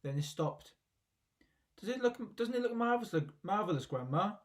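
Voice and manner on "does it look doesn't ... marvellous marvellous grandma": high excited call; excited shout. A narrator's reading. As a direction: shout up to Grandma in wonder. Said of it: "George shouted".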